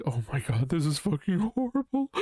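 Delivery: high, panicky self-imitation; hammed-up anxious whine; mock panic. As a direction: squeal it like you're freaking out. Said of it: "Sometimes I'll be like".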